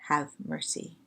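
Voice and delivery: soft, slow prayer on the out-breath. Shown as a demonstration. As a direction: let it go out on the breath. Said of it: "and we breathe out as we pray our petition".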